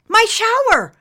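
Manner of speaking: high, loud, sudden idea; girl shouts her bright idea; exclaiming. Acted. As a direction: blurt it out with a flash of hope. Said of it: "she exclaimed".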